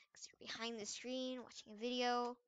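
breathy whispered aside. Real, not acted. Gamer confiding to viewers, whispered aside.

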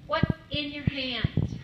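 What's in your hand, drawn out; slow, weighty question. Acted. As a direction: voice of God, slow and loud.

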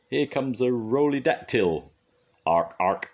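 loud mock pterodactyl; loud, slow playful dinosaur call; Roly. A narrator's reading. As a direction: announce yourself, then squawk. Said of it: "called Roly".

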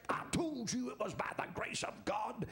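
hushed whisper from the grave; whispered quote. Acted. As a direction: breathe it out like a voice rising from the tomb. Dead man rising, quoted at resurrection.

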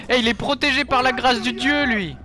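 high, loud incredulous exclaim. Real, not acted. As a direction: marvel at the unkillable enemy. Laughing disbelief at enemy. (exclamation incrédule)

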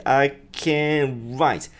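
"I can write" slow, with an American R in "write"; T dropped. Shown as a demonstration. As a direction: round the lips for the R of "write". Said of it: "Tが消えて".

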